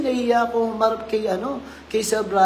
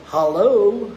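Hello in a light Filipino accent; mild Filipino-accented greeting; 6 dB louder than usual. Shown as a demonstration. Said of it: "Filipino accent".

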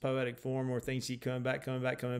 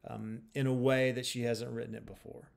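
ordinary talk

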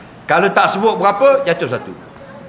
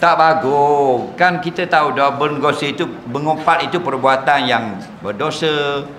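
mild husband voice; 4 semitones lower than usual. Retold or imitated. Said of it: "Dia kata".

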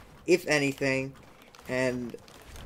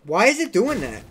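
frustrated surprise; 7 semitones higher, 7 dB louder than usual. Real, not acted. Side jump fails on camera.

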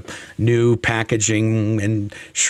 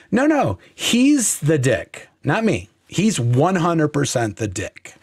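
defiant retort; 4 semitones higher than usual. Retold or imitated. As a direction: insist it's all his fault. Defiant retort, set against the contrite take.

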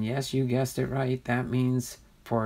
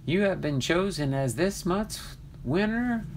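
higher, announcer-style winner call; hyped giveaway announcement; 4 semitones higher than usual. Real, not acted. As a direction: proclaim the winner with hype.

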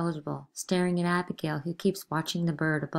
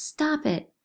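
high screamed order; screamed echo; 10 semitones higher than usual. Acted. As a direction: scream it back at her.

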